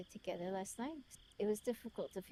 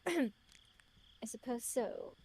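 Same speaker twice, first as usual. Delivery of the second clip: put-on British accent, slow and higher; 4 semitones higher, 3 dB louder, much slower than usual. Lover reluctantly conceding to her offer, British accent. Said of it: "Why is he British?".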